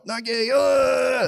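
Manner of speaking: high thin squeak; high squeaky protest. Retold or imitated. Acted startle.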